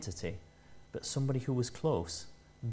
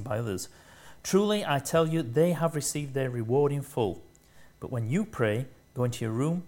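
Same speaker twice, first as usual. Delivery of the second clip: reading Jesus' words, a little louder, with emphasis; scripture reading; 3 dB louder than usual. Acted. Preacher reading Matthew six aloud, slightly louder and firm. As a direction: proclaim the verses to the congregation.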